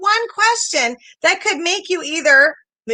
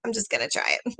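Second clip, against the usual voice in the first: quiet resolve; 6 semitones lower, 6 dB quieter, faster than usual. Retold or imitated. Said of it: "and I said".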